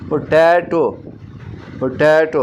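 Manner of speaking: पोटैटो twice, टै punched and lengthened; stress on TAI. Shown as a demonstration. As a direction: lean hard on टै in पोटैटो. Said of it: "अब ये टै क्या है, stress है".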